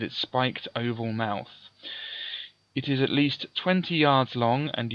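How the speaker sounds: measured, lively gamebook reading; story narration. A narrator's reading. Solo player reading out the sandworm's attack, dramatic narration. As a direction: narrate the monster's arrival with drama. Reads the gamebook passage aloud.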